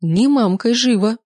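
a loud, high commanding snarl; growled. Acted. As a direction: slap him down like a strict mother. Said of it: "прорычала Лена".

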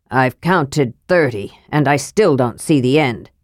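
a grumbling tired dwarf; grumpy dwarf Flint. Acted.

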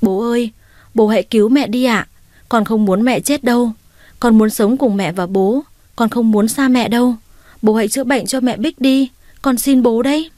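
sobbing plea. Acted. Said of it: "Bé Bông gào khóc rồi nó xin".

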